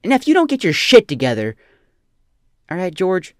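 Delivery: put-on loud ranting dad telling off his kid; mock angry parent. Mock dad yelling at his son George, loud and ranting. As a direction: bark it at the kid like a fed-up father.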